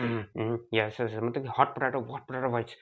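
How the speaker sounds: muffled, strained hot potato voice. Shown as a demonstration. Lecturer demonstrating spastic dysarthria, muffled hot potato voice. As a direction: sound as if a hot potato fills the mouth. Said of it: "तुम्हारा ऐसे हो जाएगा".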